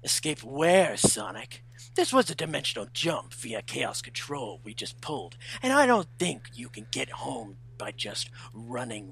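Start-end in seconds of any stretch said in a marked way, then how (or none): 0.0-4.6 more energy. Acted. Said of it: "Put more energy in it".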